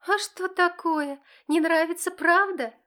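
drip venom into each word; spiteful teenage needling; venomous. Acted. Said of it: "ядовито уточняет Олька".

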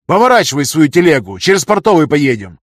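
high, loud command; loud order. A narrator's reading. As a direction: order the driver round sharply. Councillor ordering driver.

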